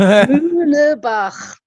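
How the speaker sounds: Muehlebach drawn out slowly with a German ch; slow careful surname. Shown as a demonstration. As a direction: spell out Muehlebach slowly, ending in a throaty ch. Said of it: "I can't spell my own surname".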